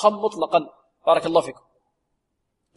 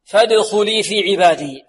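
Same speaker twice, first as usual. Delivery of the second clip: model recitation. Shown as a demonstration. Teacher models verse recitation.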